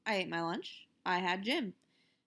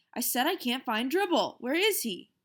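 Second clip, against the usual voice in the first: upset; 4 semitones higher, 5 dB louder than usual. Acted. Peter upset about missing turtle.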